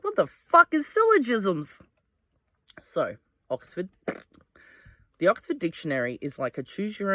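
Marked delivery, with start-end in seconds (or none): 0.0-1.8 higher, slower baffled question; mock bewilderment. Reading the Oxford definition, high mock bewilderment. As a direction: act thrown by a strange word. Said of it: "And I'm like".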